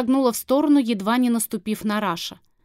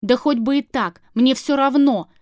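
harsh; 3 semitones higher, 5 dB louder than usual. Acted. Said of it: "жёстко произнёс Кара".

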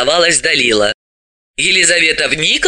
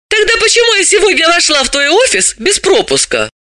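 smirking challenge. A narrator's reading. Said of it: "с усмешкой спросила".

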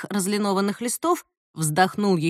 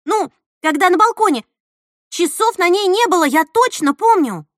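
higher, louder, urgent; excited; 8 semitones higher, 5 dB louder than usual. Acted. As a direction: insist she remembers. Nastya excitedly recalls the watch.

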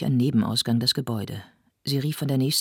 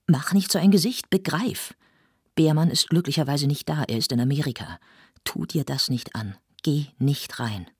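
raised, pressing plea; urgent pleading; 2 semitones higher than usual. Acted. Lenhoff urges Lotte to stay out, pressing and raised. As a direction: urge her not to go in.

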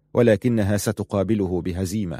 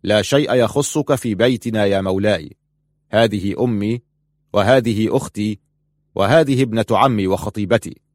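louder, defiant insistence; 4 dB louder than usual. Acted. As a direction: stand your ground against the lord. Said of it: "قال إبراهيم في تحد". (بتحدٍّ وصوت أعلى)

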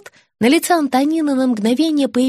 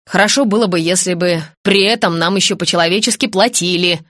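ordinary delivery, nothing marked

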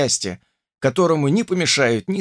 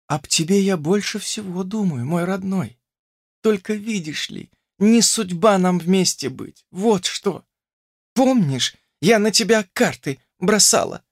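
put-on tender young woman; 7 semitones higher than usual. A narrator's reading. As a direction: comfort him, gently sad. Olesya's tender reply.

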